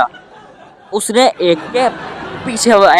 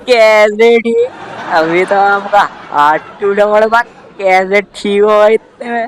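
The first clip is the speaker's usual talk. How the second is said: prying uncle disbelief. Acted. Uncle questions the boy's broken arm, teasing disbelief. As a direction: drag out the disbelief.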